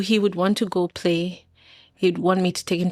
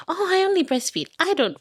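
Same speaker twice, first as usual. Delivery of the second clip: high, prissy mock voice of judgmental moms, lightly done; 5 semitones higher than usual. Mocking other moms' boasts to a podcast host, high and prissy. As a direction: parrot the smug mom-group boasts. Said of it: "some circles can be so judgmental".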